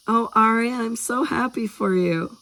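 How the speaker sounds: high, gushing delight; high-pitched, heartfelt congratulations. A narrator's reading. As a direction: gush with happiness for a friend. Marin congratulates Ari with a hug.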